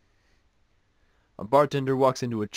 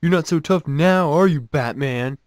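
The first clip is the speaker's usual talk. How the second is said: loud, raised taunting yell; hammed-up shouted punchline, drawn out at the end; mock scream; 4 semitones higher, 6 dB louder than usual. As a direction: yell the taunt like a triumphant drunk. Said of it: "he starts screaming".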